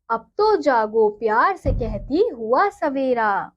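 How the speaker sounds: put-on slow, sing-song reading of a children's poem; poem recitation. Teacher reading a poem to her students, slow and sing-song. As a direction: recite it gently and slowly for the class.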